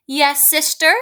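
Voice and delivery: "sister?" rising at the end as a question; asking voice. Acted. Teacher reads Baby answering her sister, "sister?" in an asking voice. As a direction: raise the pitch on "sister?" as if asking. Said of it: "when she asks these questions, my voice goes up".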